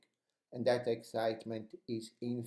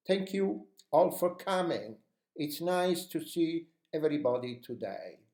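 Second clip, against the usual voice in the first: "coming" punched higher and stretched; stress on coming; 4 semitones higher than usual. Shown as a demonstration. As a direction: open the meeting with energy, leaning on "coming". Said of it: "we just stress the word coming".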